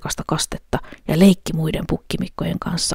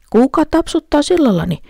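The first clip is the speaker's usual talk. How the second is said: troll asks; 10 semitones higher, 4 dB louder than usual. A narrator's reading. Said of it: "kysyi peikko".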